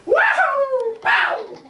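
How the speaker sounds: high, loud joyful shout; triumphant whoop. Retold or imitated. Gina shouting with joy as she clears the trap. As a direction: whoop as she flies over.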